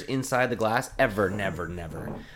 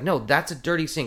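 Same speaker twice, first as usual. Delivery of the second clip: higher exasperated correction; worked up; 5 semitones higher, 4 dB louder than usual. Retold or imitated. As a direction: retell it as a fed-up bartender scolding. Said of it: "I'm getting worked up again".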